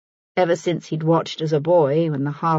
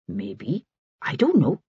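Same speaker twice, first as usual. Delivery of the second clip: wary; 3 semitones lower than usual. A narrator's reading. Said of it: "said the Jamaican warily".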